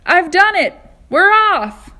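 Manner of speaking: very high, very loud victory cry; triumphant shout. Acted. Centipede through the ceiling announcing success, triumphant loud shout. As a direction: crow it out in triumph.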